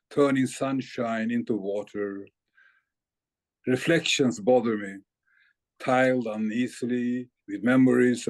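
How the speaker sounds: measured poem recital; composed verse, sinking at the close; poetry reading. Acted. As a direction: recite it line by line with deliberate pauses. Reads poem from new book.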